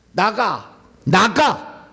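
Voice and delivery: a stern exorcist ordering the demon out; firm command. Shown as a demonstration. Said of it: "이렇게 얘기하는 거죠".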